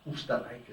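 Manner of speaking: Österreich said the German way, with the umlaut; German pronunciation. Shown as a demonstration. Naming the country in German for the audience, German pronunciation. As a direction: say Österreich as an Austrian would. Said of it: "as they say".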